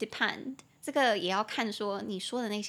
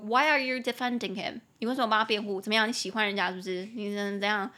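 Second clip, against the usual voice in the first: mock angry boyfriend. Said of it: "生气说".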